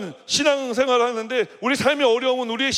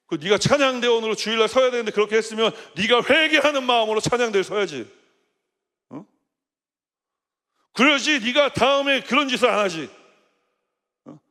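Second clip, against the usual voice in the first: mild retold scolding. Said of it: "좀 세게 얘기했어요".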